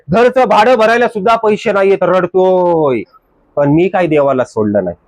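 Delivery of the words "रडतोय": a drawn-out, very slow sob of a word; mock weeping. Pastor mimicking a weeping believer, drawn-out mock sob.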